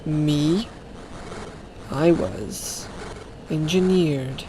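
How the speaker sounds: soft, slow, halting legendary voice; hushed, solemn creature reveal; mysterious engineered creature. Acted. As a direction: speak softly and slowly, pausing between phrases.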